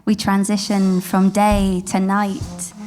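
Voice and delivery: slow, tender poem reading; poetry reading. Acted. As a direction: read it like a love poem. Reads poem over music.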